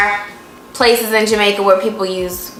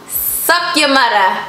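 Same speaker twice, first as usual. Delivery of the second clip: trying a Jamaican accent; 4 semitones higher than usual. Shown as a demonstration. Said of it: "Is my accent right?".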